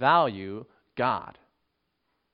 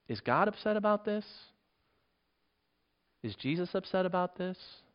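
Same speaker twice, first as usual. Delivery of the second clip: softer, higher-pitched wondering; quiet self-questioning; 4 semitones higher, 7 dB quieter than usual. Acted. Believer checking their own indignation, quiet questioning.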